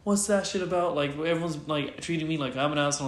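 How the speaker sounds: high-pitched imitation of his protest; retold agitation. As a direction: mimic someone worked up and aggrieved. Imitating the hyped-up man's protest.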